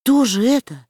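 as if he can't believe it; stunned question. A narrator's reading. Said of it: "спросил ошеломлённый Маугли".

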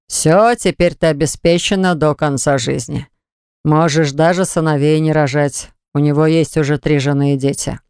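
deliberate, cold fatherly pronouncement. Acted. Father voices slow menace.

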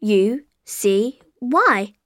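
letter by letter; spelling it out. Shown as a demonstration. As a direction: spell each letter clearly.

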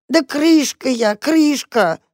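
high, slow, weepy insistence; a cat near tears naming herself; tearful cat answering the mouse. Acted. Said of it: "ответил плачущий голос".

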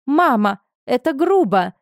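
a daughter cries out that it's rude; indignant protest. A narrator's reading. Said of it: "возмутилась Энни".

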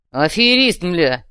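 loud thug curse; cursing. A narrator's reading. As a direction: spit out the curse. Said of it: "выругался контейнер".

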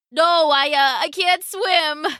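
put-on frightened boy spluttering in rain; shouting, spluttering. A narrator's reading. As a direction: blurt it out in panic. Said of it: "Abdul shouted back, spluttering in the rain".

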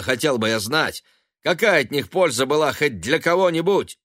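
high, loud, angry shout building up. A narrator's reading. Son shouting at his mother about money. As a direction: yell back at her, furious. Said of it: "закричал он".

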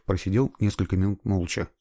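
usual speaking voice

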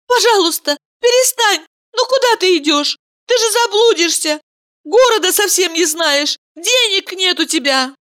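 high pleading woman's voice. Acted. Valeria pleads with Mikhail.

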